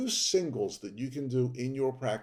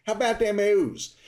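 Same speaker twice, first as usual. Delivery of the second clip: Baltimore accent, pitched up high; 8 semitones higher, 4 dB louder than usual. Shown as a demonstration. Podcast host repeating the local Orioles phrase, Baltimore accent. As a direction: shout the hometown cheer in a Baltimore accent. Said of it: "my best Baltimore accent".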